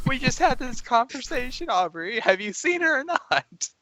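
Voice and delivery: exasperated. Acted. Johnson fed up with the forgetful guard, exasperated. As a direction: push back, out of patience.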